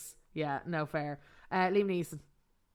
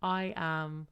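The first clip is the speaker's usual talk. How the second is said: fangirling; 4 dB quieter, slower than usual. Retold or imitated. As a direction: gush like a starstruck fan. Imagined fan reaction.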